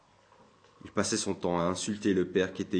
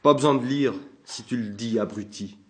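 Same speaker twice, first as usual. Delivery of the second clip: put-on loud, higher drunk outburst; shouting; 3 semitones higher, 4 dB louder than usual. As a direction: shove the words at him. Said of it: "en criant".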